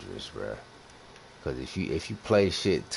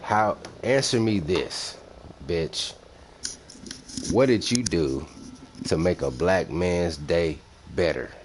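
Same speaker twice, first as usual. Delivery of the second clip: loud, higher mock-demanding street voice; black youngster voice; 3 semitones higher, 6 dB louder than usual. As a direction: bark it at the chat like an impatient homie. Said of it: "In, in my black youngster voice".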